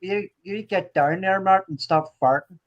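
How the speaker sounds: put-on Northern Irish voice; Northern Irish accent. Telling Martin off for laughs, Northern Irish accent. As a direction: switch into broad Northern Irish. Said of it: "That's Northern Irish".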